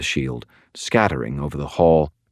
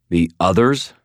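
demanding; 3 semitones higher, 3 dB louder than usual. Acted. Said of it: "I demanded".

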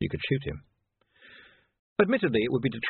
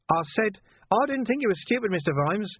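sly villain, repeating; 11 semitones higher than usual. A narrator's reading. Repeated, slightly louder.

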